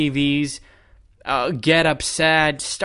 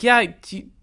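higher, incredulous rant; higher pitched scoffing at fans who didn't play; mock retort; 5 semitones higher than usual. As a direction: call out the armchair fan in disbelief. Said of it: "I'm like".

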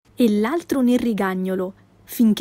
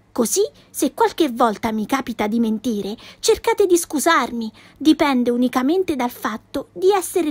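put-on a touch higher, spirited girl defending herself; bright cheeky girl voice, lightly done; a hint of a feisty little girl protesting; lightly voiced Pippi, indignant; 4 semitones higher, 4 dB quieter than usual.

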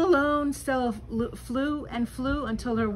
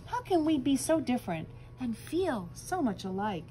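musing; 3 semitones higher than usual. Acted.

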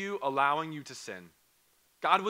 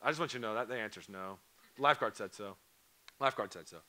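lower, softer, deadpan no; a dry lifeguard-said-so shutdown; flat final answer; 5 semitones lower, 3 dB quieter, faster than usual. Retold or imitated. Pastor telling the kid the answer is no, dry and deadpan.

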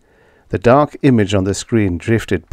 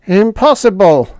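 higher alien voice, a mild hiss of denial; 12 semitones higher, 6 dB louder than usual. A narrator's reading. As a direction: spit out the denial. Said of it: "Schla hissed".

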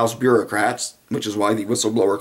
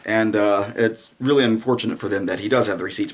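ordinary talk

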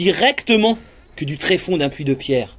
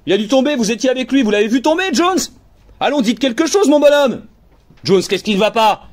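alarmed questioning; 7 semitones higher than usual. Acted. Crewman questioning the trembling Jones, alarmed and urgent. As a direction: press him anxiously for an answer.

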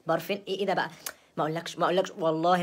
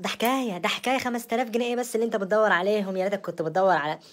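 raised, higher-pitched protest; indignant outburst; 3 semitones higher, 5 dB louder than usual. Acted. Wife brushing off the missing five thousand pounds, indignant. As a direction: protest loudly as if wronged.

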